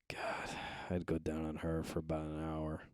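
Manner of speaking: hushed whispered aside. Retold or imitated. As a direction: whisper it under your breath. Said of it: "he just goes".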